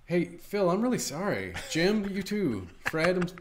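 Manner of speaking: sheepish apology through laughter; laughing mock apology. A podcaster voicing the villain apologising, laughing sheepishly. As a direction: apologise while cracking up.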